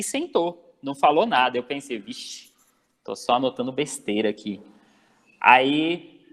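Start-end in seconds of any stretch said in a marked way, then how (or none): 2.0-4.6 low, soft aside to yourself; muttered inner thought. Retold or imitated. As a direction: think it aloud under your breath. Retold worried thought to himself.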